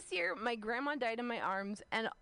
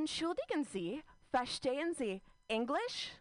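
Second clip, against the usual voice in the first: textbook German dialogue; 3 semitones higher than usual. Acted. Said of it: "here's the conversation".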